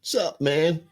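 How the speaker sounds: high, breezy sup man; playing it cool at the ticket clerk; casual greeting. Talking to the metro clerk through glass, casually. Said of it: "And I'm like".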